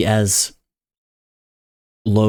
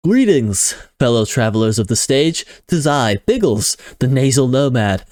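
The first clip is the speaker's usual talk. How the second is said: surfer dude slip; 4 semitones higher than usual. Acted. Biggles greets the audience, a touch surfer dude. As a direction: hail them like a laid-back surfer. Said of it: "falling into, like, a surfer dude".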